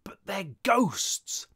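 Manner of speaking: slow, high-strained stage whisper; hissed whisper. A narrator's reading. Buster protesting to the girl, hissed whisper. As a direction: hiss it slowly in alarm. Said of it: "hissed Buster".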